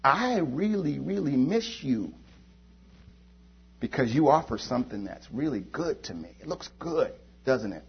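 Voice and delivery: a tempted believer pining softly for the world; soft longing. Pretend. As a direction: murmur it like missing an old love. Tempted person pining for Egypt.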